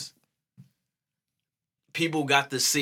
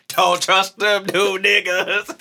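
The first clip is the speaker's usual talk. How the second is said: Uncle Ruckus; 8 semitones higher, 6 dB louder than usual. Acted. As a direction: growl it like a cranky old man. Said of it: "I'll be Uncle Ruckus".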